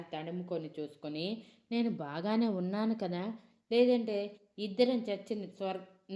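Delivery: baffled, can't make sense of it; confused disbelief. Acted. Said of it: "అయోమయంగా అడిగింది". (అయోమయంగా ప్రశ్నించడం)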